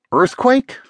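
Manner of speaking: high-pitched, incredulous question; disbelieving. A narrator's reading. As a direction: ask it as if you can't believe it. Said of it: "not believing it himself".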